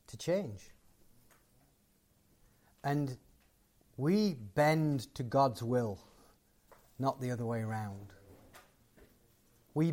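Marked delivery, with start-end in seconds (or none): none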